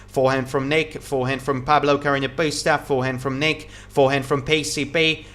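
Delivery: quick rhythmic rally calls, each shot named; steady live commentary calling the rally; tennis play-by-play. Acted. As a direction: call every shot as it's struck.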